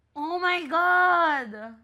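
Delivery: drawn-out, loud gasp of shock; stunned and delighted; shocked oh my God. Real, not acted. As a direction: squeal it out, slow and loud. Host reacts to love story.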